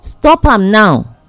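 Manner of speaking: usual speaking voice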